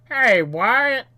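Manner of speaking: loud, high mock shout; put-on shouty voice; calling out in chat voice. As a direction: holler it like a player in chat. Reads player chat in put-on voice.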